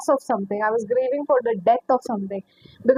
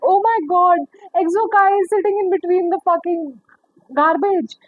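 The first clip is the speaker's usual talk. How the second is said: higher-pitched retold exclamation; mock astonishment; 5 semitones higher than usual. Retelling lizard in the garbage, mock astonishment. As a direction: act out an amused, incredulous discovery.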